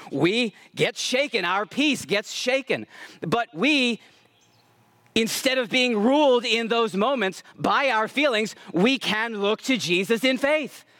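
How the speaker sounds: measured, forceful sermon delivery; emphatic preaching. Real, not acted. Preacher urging faith amid trials, emphatic preaching. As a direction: preach it in weighty, drawn-out phrases. Preaches after chatty aside.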